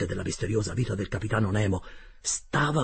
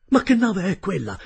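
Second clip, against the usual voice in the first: high, loud, insistent query; urgent question; 9 semitones higher, 7 dB louder than usual. Acted. Narrator pressing the captain about the ship, urgent. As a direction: demand an answer, voice raised.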